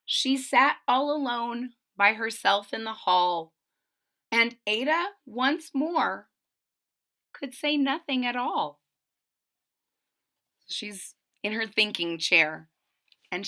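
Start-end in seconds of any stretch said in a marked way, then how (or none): 0.0-8.8 rhyming picture-book read-aloud; storybook narrator; story narration. A narrator's reading. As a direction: read to young children, landing each phrase.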